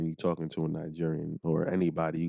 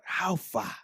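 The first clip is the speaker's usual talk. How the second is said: quiet casual greeting; 9 semitones higher, 5 dB quieter than usual. Retold or imitated. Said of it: "you be like".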